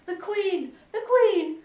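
very high, loud alarm call; high-pitched warning shout. A narrator's reading. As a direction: cry it out across the garden. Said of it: "called out".

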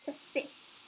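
slow, menacing villain declaration; slow theatrical villain menace. Pretend. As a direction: drag it out like a gloating villain. Spider villain continues the act.

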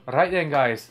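lightly put-on Scottish accent. About to tell of work habit, mild Scottish accent. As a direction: slip into mock Scottish. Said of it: "I'm gonna turn Scottish again".

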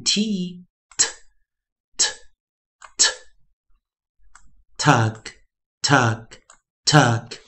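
t as a bare short release, then tuck; slow, spaced drill from t sound to tuck; three separate t sounds, then three of tuck; phonics blending. Shown as a demonstration. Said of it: "老师在这边念的一些发音的方式".

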